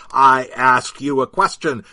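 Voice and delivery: loud angry demand; dad confronting the disciple; shouting in his face. Acted. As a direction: bark the question right in his face. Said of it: "he shouted in the man's face".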